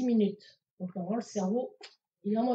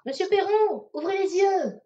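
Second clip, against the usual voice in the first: higher, louder bark at a patient; firm loud command; 9 semitones higher, 6 dB louder than usual. Shown as a demonstration. To her father in the coma, a loud firm order. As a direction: call him to open his eyes, firmly. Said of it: "vous lui parlez comme ça".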